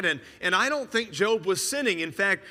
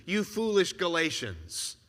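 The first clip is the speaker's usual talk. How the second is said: weary rebuke; 3 dB quieter than usual. Retold or imitated. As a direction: let the scolding sink into a sigh of disappointment. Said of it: "take this tone with you".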